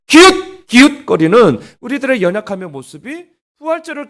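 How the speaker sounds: loud ringing pulpit voice, driving each phrase; forceful Easter sermon delivery; preaching at full force. Acted. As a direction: preach it out to the whole hall.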